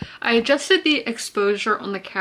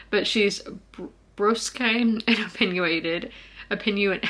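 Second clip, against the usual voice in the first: with whitening strip. Real, not acted. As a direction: mouth sticky from a whitening strip. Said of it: "I can't talk. I just had a whitening strip in".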